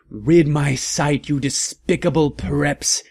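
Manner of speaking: a theatrical villain's mock shout; hammed-up shout. Villain yelling at the goth heroes, slow hammed-up shout. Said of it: "he shouted".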